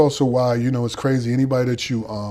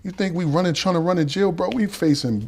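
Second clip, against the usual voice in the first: calm menace; 5 semitones higher than usual. Retold or imitated. Older inmates answer him.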